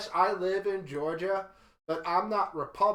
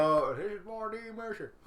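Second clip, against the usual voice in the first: Roy D. Mercer prank caller; 4 semitones higher than usual. Retold or imitated. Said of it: "He would be like".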